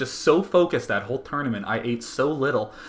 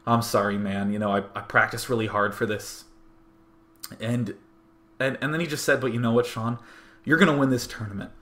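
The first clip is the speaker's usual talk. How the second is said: getting emotional. Real, not acted. Retelling a brother's apology backstage, real welling emotion. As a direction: hold back feeling as you recall his words. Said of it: "watching me right now get all emotional".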